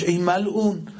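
shouted, rising to a high cry; angry rebuke. Acted. Ali rebuking the cursed man, shouting.

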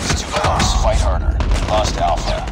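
loud, urgent battlefield commands; shouting orders over battle. Acted. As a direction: bark the orders over gunfire. Announcer barking orders mid-battle.

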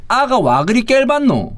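slow, drawn-out Busan dialect; Busan dialect line. Shown as a demonstration. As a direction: read it out like a Busan local. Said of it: "이런 말 부산에서 써요?".

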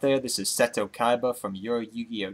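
winded, breathing hard between words. Real, not acted. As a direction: talk while still catching your breath. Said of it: "if I seem a little winded right now".

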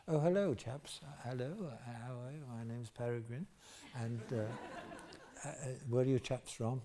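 soft, lightly mocking posh English accent. Posh Peregrine greets the chaps at a party, posh English accent. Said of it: "posh people, and lovely".

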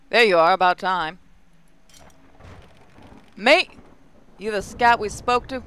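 put-on light Aussie accent, a loud gruff greeting; Australian accent. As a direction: read it like a brash Aussie contact. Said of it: "Okay, so they're Australian".

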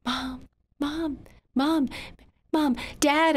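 put-on a child yelling for her parents; yelling for mom. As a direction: call out to the house. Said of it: "I yelled".

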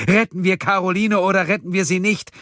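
high, loud furious demand; bellowing. A narrator's reading. Man demanding a vote as time runs out, bellowing. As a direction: shout the ultimatum at full urgency. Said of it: "brüllte Erik".

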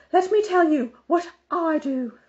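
high, loud bossy lady's voice; fussy Mrs Armstrong. A narrator's reading. Busybody on the phone lecturing Mother, high and loud. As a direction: play the busybody organizer insisting.

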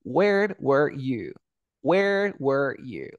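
Where were you spoken very slowly, each word apart; slow model sentence. Shown as a demonstration. Teacher models the question slowly for the student.

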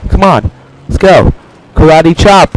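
high, loud rallying calls; battle cry. Real, not acted. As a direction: call it out punchy and high. Charging an enemy in game.

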